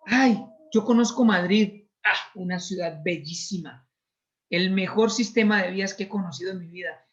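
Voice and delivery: loud, gushing praise of Madrid; raving traveller. Retold or imitated. Preacher mimicking a tourist raving about Madrid, loud and gushing. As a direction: boast about the trip like a thrilled tourist. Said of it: "Yo puedo decir".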